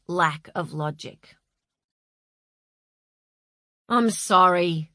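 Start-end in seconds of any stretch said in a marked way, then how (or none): 3.9-4.9 humbly. A narrator's reading. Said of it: "said Tony humbly".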